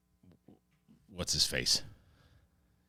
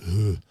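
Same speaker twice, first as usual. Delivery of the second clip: mock groan of a spent man; imitated worn-out "ugh"; exhausted groan; 4 dB louder than usual. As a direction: groan as if giving out. King craps out after speech.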